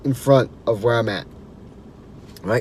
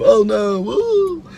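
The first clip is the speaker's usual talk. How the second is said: fake fall cry; 8 semitones higher, much slower than usual. Pretending to fall off tube.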